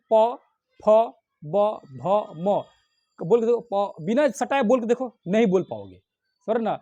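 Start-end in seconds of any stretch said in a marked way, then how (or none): 0.1-2.6 प, फ, ब, भ, म sounded with closed lips; lip sound demo. Shown as a demonstration. Teacher asking students to try प, फ, ब, भ, म. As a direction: press the lips together for प, फ, ब, भ, म. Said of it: "बोल के देखिए, उच्चारण करके देखिए".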